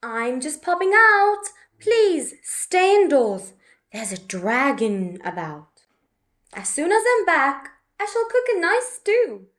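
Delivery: chirpy mum calling as she heads out; lightly voiced mum. Mum telling Betty she's popping out, lightly voiced.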